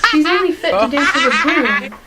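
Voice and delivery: loud, high jeering laugh; mocking laugh. Spiteful stepsister mocks Cinderella, laughing loudly. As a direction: laugh her down like a spiteful sister. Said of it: "added Anastasia".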